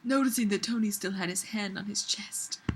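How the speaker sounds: soft whisper through the line; whispered narration. Acted. Reading the steamy bit to friends, whispered. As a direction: hush it like a secret.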